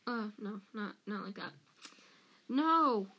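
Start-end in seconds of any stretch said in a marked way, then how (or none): 2.5-3.1 loud, high cry of protest; yell. A narrator's reading. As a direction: yell it out, voice raised. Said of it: "Harry yelled".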